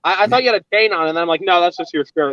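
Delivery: talking around a toothbrush; while brushing teeth. Real, not acted. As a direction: speak with toothbrush in mouth. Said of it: "I'm brushing my teeth and talking".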